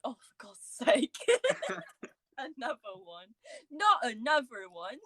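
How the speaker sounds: a hint of a Bristol accent, slowed. Voicing family at the dinner table, light Bristol accent. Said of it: "That accent was quite good".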